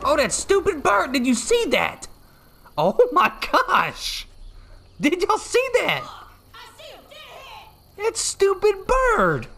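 yelling at the screen, stretched out slow; excited shout. Real, not acted. Bird wrecks the truck ambush.

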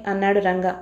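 ordinary delivery, nothing marked

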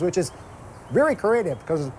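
talking through a mouthful of burger; mouth full. Real, not acted. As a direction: speak round a bite of food. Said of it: "I'm talking with my mouth full here".

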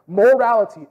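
"Morality" said loud, with a clear MOR and no T; careful pronunciation. Shown as a demonstration. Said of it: "not mortality".

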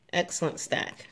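soft whispered praise. Real, not acted. Praising a child softly.

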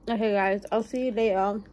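talking with food in mouth; words round a mouthful of food; mouth full. Real, not acted. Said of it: "Sorry for talking with my mouth full".

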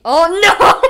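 loud high laughing oh no; laughing dismay. Real, not acted. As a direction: laugh through the fail. Dying, laughing at it.

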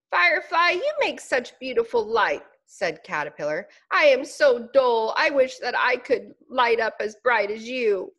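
a tiny bug gazing up in awe; admiring little caterpillar. Acted.

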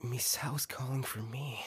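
whisper. Acted. Hearing a ghostly voice.

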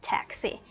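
"taxi" with a strong TAX and a light si; stress on first syllable. Shown as a demonstration. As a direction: lean on the opening syllable of "taxi". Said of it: "mình sẽ nhấn mạnh hơn vào âm đầu tiên". (nhấn âm đầu "taxi", âm sau nhẹ)

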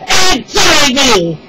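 loud, high, drawn-out wail; hammed-up sobbing. A narrator's reading. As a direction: sob it out slowly, very theatrically. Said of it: "The King sobbed".

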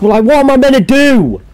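high, whiny cry of despair; exasperated wail. Real, not acted. Frustrated gamer asking the game what to do, high wail. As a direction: throw up your hands and wail it.

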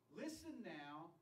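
slow, weighty quoted reproach; retold rebuke with heavy pauses; mock stern rebuke. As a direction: deliver it word by word as a scolding. Moses rebukes the assembly in quote.

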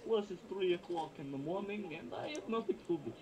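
thick mock Russian accent. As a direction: put on a heavy Russian accent. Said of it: "I like your Russian accent".

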